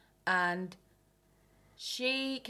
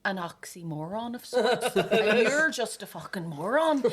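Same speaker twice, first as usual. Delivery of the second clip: laughing retort; 3 semitones higher, 5 dB louder, slower than usual. Retold or imitated. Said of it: "Yeah, I was like".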